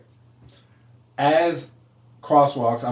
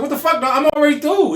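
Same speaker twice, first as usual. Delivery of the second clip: retold outburst; 12 semitones higher, 3 dB louder than usual. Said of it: "I was like".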